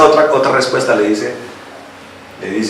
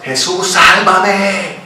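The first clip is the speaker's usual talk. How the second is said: long drawn-out plea, pitched up without real volume; acted cry for help, every vowel stretched; mock desperate cry; 5 semitones higher, 4 dB quieter, much slower than usual. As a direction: wail it slowly, like begging for rescue. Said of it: "esa mujer gritaba".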